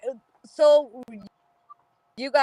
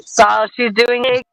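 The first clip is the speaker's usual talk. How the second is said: chipmunk voice; 10 dB louder than usual. Real, not acted. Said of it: "You sound like a chipmunk that's going slow".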